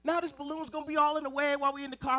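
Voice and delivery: put-on high, fast annoyed kid whine; whiny kid complaint. Kid whining to his dad about the balloon. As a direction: whine like a bratty older brother.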